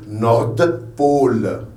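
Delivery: "Nord", short pause, then "Pôle"; pause between parts. Shown as a demonstration. Teacher showing a compound word, pause between parts. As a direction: split "Nord Pôle" in two, sounding the D. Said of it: "on fait une pause".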